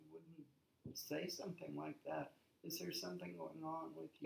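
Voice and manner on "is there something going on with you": softly asking after a friend; soft, concerned question; gentle check-in. Acted. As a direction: ask it gently and carefully.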